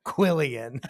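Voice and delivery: "Quillian" shouted out loud; all-caps shout. Retold or imitated. Reading her all-caps text to her co-host, loud shout. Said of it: "all capitals".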